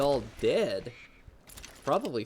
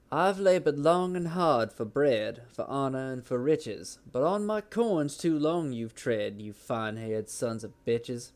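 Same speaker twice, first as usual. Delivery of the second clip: Southern accent. Shown as a demonstration. Streamer reciting Black Bart's poem in a hammed Southern accent. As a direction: recite it like a Wild West Southerner. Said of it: "I'm gonna do a s-, Southern accent".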